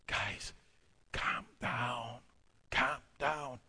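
soft hushed pleading to calm them; soothing calm down. Retold or imitated. Pastor calming fighting passengers, soft and hushed. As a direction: quietly settle the fighting men. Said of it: "I said".

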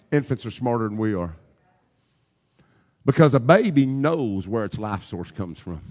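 low, soft preaching with long pauses; hushed reflection. Real, not acted. Preacher telling the church to watch a nursing baby, hushed. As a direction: drop right down and let each thought settle.

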